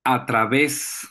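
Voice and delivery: "A través" slowly, stressing the final E; acento en la E. Shown as a demonstration. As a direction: lean on the é of "A través". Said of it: "lleva acento en la E". ("A través", lento, marcando la é final)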